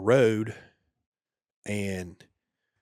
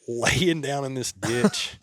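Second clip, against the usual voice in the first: laughing; 4 semitones higher, slower than usual. Real, not acted. Soldier laughs telling friends about cramping in the ditch, laughing. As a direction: laugh through it, pitched higher and slower. Laughs at his own misfortune.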